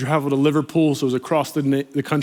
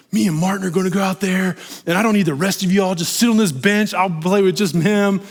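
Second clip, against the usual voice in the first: mock halftime rant; 4 semitones higher than usual. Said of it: "I was doing the whole thing".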